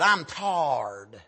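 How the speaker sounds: "tarred" for tired, stretched long and low; low, weary mimicry on "tarred"; imitating tired drawl. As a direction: let "tarred" sag and drag out. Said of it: "That's the way he said it".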